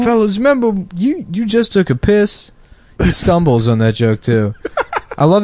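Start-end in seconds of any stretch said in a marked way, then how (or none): 0.0-2.5 hammy Steve Harvey again; Steve Harvey impression.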